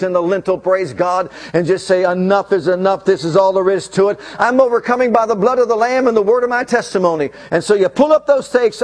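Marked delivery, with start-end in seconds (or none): 2.0-7.3 rising, fast triumphant proclamation; bold declaration. Acted. Preacher voicing a believer's declaration.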